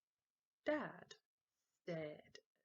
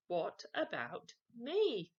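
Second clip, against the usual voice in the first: louder, slow, drawn-out whine; insistent demand; 4 semitones higher, 9 dB louder, slower than usual. Acted. Henry demanding a chocolate again, louder and slow. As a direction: drag it out, pushy.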